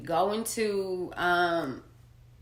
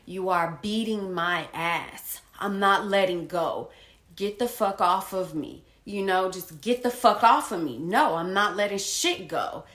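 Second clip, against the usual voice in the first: louder, defiant yell of refusal; retold yelling; 6 dB louder than usual. Pinned man yelling at his attacker, loud and defiant. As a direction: shout it back, refusing to let go. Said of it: "I'm yelling at him".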